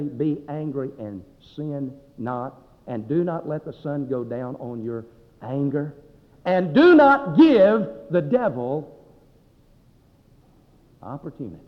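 very slow, deliberate, with weighty pauses; measured scripture recitation. Retold or imitated. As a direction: recite the verse slowly, driving one phrase hard then dropping. Preacher recites scripture to angry man.

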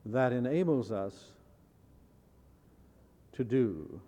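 measured dictation with long pauses; deliberate, with pauses between phrases; careful wording. Shown as a demonstration. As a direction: give out the definition phrase by phrase. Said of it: "very carefully give you a wording".

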